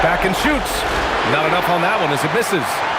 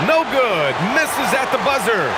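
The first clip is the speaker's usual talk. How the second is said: excited call; 6 semitones higher than usual. Acted. Missed shot at halftime buzzer.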